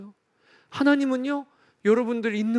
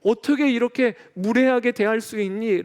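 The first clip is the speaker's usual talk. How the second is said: mock scolding; 3 semitones higher than usual. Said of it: "라고 꾸짖으신 게 아니고".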